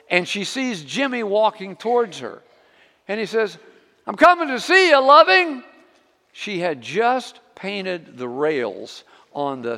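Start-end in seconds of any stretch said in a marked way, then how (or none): 4.0-5.6 put-on high, loud little boy calling across the yard; child calling out. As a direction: call out like an eager five-year-old.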